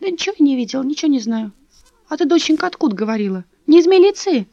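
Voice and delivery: put-on high anxious old woman, hurrying; frightened old woman denying to Dasha, hurried. A narrator's reading. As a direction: babble it out nervously, high-pitched. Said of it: "торопливо забормотала".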